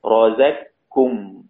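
in رزقكم merge the ق completely into a doubled ك; ق vanishes into a held ك in رزقكم; full idgham. Shown as a demonstration. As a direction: say رزقكم slowly as "razak-kum". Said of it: "إضغام كامل".

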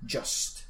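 "just" opening on an English j sound; teacher's careful "just", not a Spanish jota. Shown as a demonstration. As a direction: model "just" with a j as in jam. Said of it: "la J se pronuncia ju".

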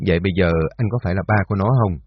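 bây giờ pressed slightly harder; slight stress on bây giờ. A narrator's reading. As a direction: lean lightly on bây giờ in a quick question. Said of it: "hơi nhấn mạnh hai tiếng bây giờ".

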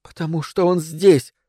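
испуганно, сбивчиво, с паузами; задыхаясь от страха, с паузами; panicked breathless whispers. Acted. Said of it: "сказала она в паузах, испуганно переводя дыхание". (испуганный прерывистый шёпот)

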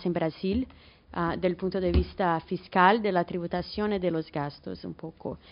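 Spanish with a Portuguese accent; portuñol. Real, not acted. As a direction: Brazilian speaking Portuguese-tinged Spanish. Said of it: "disculpa por el portuñol". (portuñol con acento brasileño)

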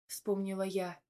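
ordinary delivery

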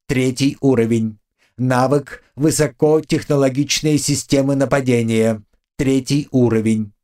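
steady system announcement voice; item readout. Acted. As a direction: read it like a game interface. Reads item stats.

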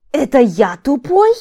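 loud, slow, high-pitched outraged question; indignant exclamation. A narrator's reading. Тари realises he was called stupid, indignant outcry. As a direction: exclaim it in drawn-out disbelief. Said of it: "Тари возмущённо воскликнул".

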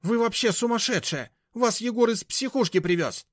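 high, loud, furious; high-pitched angry shout; shrill insult. A narrator's reading. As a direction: hurl the accusation. Mashka yelling insults.

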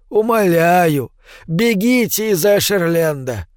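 put-on slow, pleading old man. Old man begs her to flee.

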